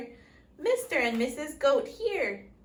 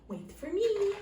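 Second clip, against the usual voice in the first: calling; 9 semitones higher than usual. A narrator's reading. Character calling.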